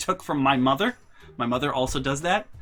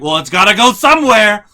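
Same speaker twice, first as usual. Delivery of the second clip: louder, higher grumbling comeback; defiant retort; 7 semitones higher, 13 dB louder than usual. Retold or imitated. Brother answering the family's screams, defiant. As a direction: shrug it off, stubborn.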